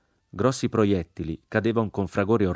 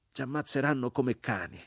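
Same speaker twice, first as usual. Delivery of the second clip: higher, falling lament of the crucified man; grave e triste; 6 semitones higher, 3 dB quieter than usual. A narrator's reading. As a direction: voice the doomed man's warning aloud. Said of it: "disse l'uomo crocifisso con voce grave e triste". (grave e triste, detto ad alta voce)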